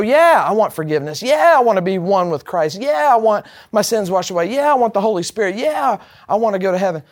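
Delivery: mildly hammed-up eager replies, each "yeah" drawn up; mock-keen string of agreement; eager crowd. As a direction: imitate listeners keenly signing up one after another.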